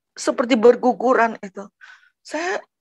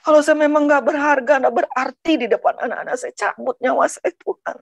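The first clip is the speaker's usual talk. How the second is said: retold plea to God, raised in pitch; desperate plea; 4 semitones higher than usual. Hungry children's mother pleads with Tuhan, desperate. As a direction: plead urgently, pressing through the words.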